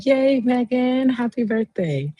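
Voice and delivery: high, drawn-out happy cheer; gleeful congratulations pitched high; birthday cheer. Real, not acted. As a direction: celebrate a friend in a high, slow singsong.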